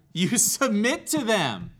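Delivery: a laugh breaking into "You submit to them"; laughing answer. Real, not acted. Laughs while giving the answer.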